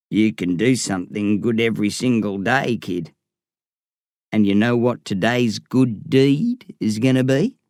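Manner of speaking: a hint of an older mentor figure, low at first; lightly voiced Slim. A narrator's reading. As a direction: lightly voice Slim advising the kid, rising into a question.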